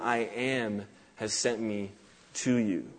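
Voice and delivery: low, soft, weighty; hushed solemnity. Retold or imitated. Preacher quoting God's answer to Moses, quietly solemn.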